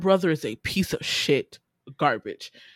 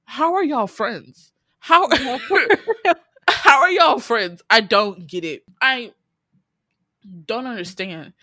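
baffled laughing; 3 semitones higher, 4 dB louder, slower than usual. Retold or imitated. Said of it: "And I'm sitting here like".

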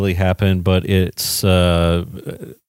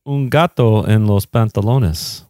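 Italian accent; slower than usual. Shown as a demonstration. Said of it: "an Italian accent there while you were speaking it".

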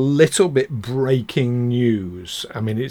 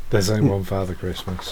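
put-on gasps, then a lower, hushed, wide-eyed child's insistence; mock-shocked child; 6 semitones lower, 4 dB quieter than usual. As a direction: play the shocked kid defending Santa. Mock-shocked reply about Santa.

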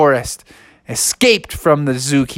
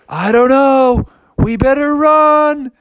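high, slow, drawn-out wail; cartoonish high-pitched dismay; worried bears; 10 semitones higher, 3 dB louder, slower than usual. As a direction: stretch it out in a high, anxious voice. Bears answer in worry.

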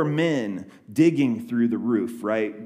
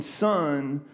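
soft, tender words to a son; quiet loving forgiveness; 4 dB quieter, slower than usual. Acted. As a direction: speak it gently, with love. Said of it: "in a loving tone".

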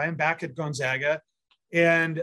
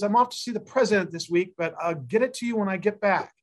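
lightly imitated Southern drawl, a little raised in pitch; thick Southern drawl; 4 semitones higher than usual. Friend apologizing to James on the phone, mild imitated Southern drawl. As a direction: retell it with a hint of a Southern drawl. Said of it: "he said in his thickest Southern drawl".

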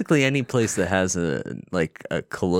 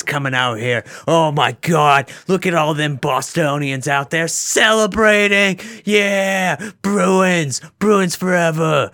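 high, loud hockey announcer calling the win; excited play-by-play, pitched high; mock sports commentary; 7 semitones higher, 4 dB louder than usual. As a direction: ham it up like a local broadcaster at the final buzzer.

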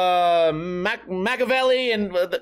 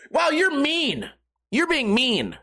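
high, whiny mock offence; imitating a hurt skater; hammed-up pouty complaint; 5 semitones higher, slower than usual. Skater whining at his critique.

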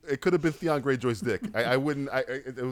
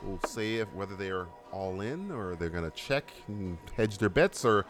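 segment host read; 4 dB quieter than usual. Acted. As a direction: present the rules like a game show. Hosts the segment intro over music.

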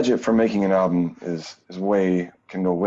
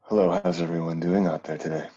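lightly sultry, low-key seductive; a hint of a smooth crooner; sexy voice; 3 semitones lower than usual. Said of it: "why he's doing a sexy voice".

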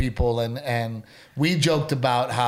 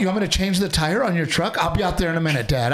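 mock eager daughter; faster than usual. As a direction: mimic the wife jumping to answer her dad. Husband mocks wife answering dad.

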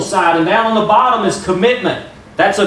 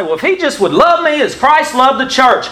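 lightly imitated women; 8 semitones higher than usual. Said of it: "I hear women all the time say".

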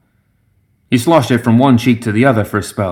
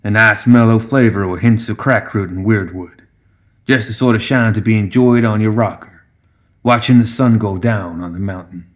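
lightly voiced backwoods connoisseur; a hint of a contented old gremlin; old gremlin brewmaster. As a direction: savor the description of your moonshine. Voices the brewmaster describing his moonshine.

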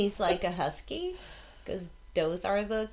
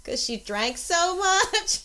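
laughing through it; 8 semitones higher, 3 dB louder, slower than usual. Real, not acted. Laughing retelling.

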